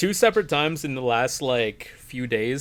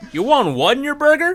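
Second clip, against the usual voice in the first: drive thru speaker; 12 semitones higher, 8 dB louder than usual. Pretend.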